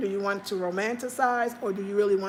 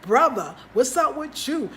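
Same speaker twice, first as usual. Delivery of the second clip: mild mock yell, raised pitch; pushed-up, slightly louder retold scolding; 5 semitones higher, 4 dB louder than usual. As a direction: confront him, imitating her irritated call. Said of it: "she was all yelling at him".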